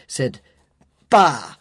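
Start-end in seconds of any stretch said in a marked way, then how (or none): 1.1-1.6 scornful bah. A narrator's reading. Scrooge's scornful retort.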